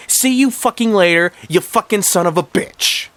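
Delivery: high, swooping villain rant; acted evil brat tirade. A narrator's reading. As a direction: gloat and threaten the viewers, punching the curses. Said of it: "greeted in an evil voice".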